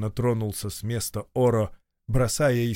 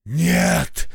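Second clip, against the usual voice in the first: hoarse; 4 semitones higher, 4 dB louder than usual. Acted. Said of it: "прохрипел".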